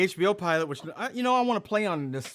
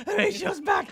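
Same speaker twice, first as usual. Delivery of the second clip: squeaky puppet voice. Acted. Puppet repeats his entrance.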